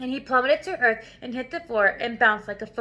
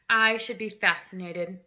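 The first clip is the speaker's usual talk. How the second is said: dripping with sarcasm, a touch lower; mock interest, every word sour; sarcastic; 4 semitones lower than usual. Headmistress mocking the boy's song offer, dripping sarcasm. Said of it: "in a voice dripping with sarcasm".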